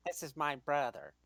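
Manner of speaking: low-pitched cartoon impression; lightly voiced cartoon alien; cartoon alien's brother. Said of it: "Yeah, you sound like him".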